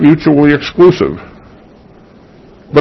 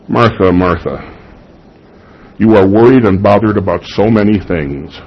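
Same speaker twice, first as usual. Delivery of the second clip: tender; 3 semitones lower than usual. Retold or imitated. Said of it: "his tender affection for her".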